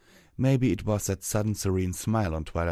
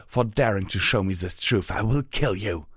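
angry; 2 semitones higher, 5 dB louder than usual. Acted. Villain threatens in rage.

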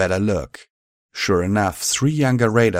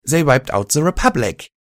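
higher, louder desperate call; shouting; 7 semitones higher, 4 dB louder than usual. A narrator's reading. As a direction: shout it up urgently. Buck shouting on.

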